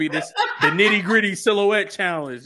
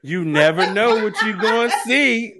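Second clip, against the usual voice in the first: imitating Peachy; 3 semitones higher than usual. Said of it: "She said".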